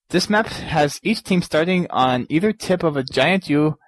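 "This map has each team starting" read in a light, mock Transylvanian vampire accent; a hammed-up Dracula lilt on the tricky sentence; Count Dracula accent. Host stumbles over the map description in a mock Dracula accent. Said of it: "I need to re-, read this plainly".

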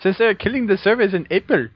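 lightly put-on Arab accent; jokey Arab-accented delivery; mock Arab accent. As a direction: read it out in a fake Arab accent. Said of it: "can do with my Arab talk".

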